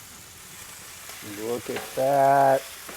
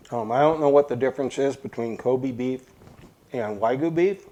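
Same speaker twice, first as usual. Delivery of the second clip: talking through a mouthful; chewing while talking; mouth full. Real, not acted. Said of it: "Sorry, I'm talking with my mouth full".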